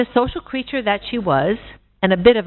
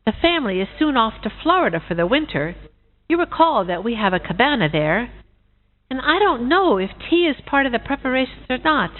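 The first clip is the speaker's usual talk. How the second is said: higher, dithering goose voice; a forgetful goose, unsure and fussing; puzzled old goose; 4 semitones higher than usual. Acted. Goose puzzling over the tea invitation, dithering and higher.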